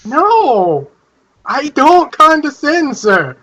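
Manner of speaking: high, eager fanboy praise; gushing admiration. Acted. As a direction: rave about him, starry-eyed. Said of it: "the most reverent tones".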